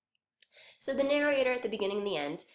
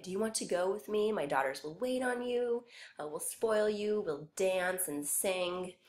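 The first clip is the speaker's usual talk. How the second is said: tempting Elf King; 2 semitones higher than usual. Acted. Elf King luring the boy again, mildly sweet. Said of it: "the Elf King tries again to tempt the boy".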